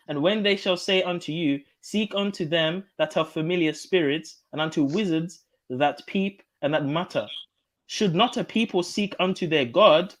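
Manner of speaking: slow, deliberate scripture reading; reading it as a question. Shown as a demonstration. Reading the King James aloud to prove a point, slowly. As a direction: lean on the question. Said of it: "question mark".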